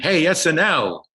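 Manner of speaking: high, slow mock cab driver jeer; cab driver heckle. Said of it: "a cab driver went".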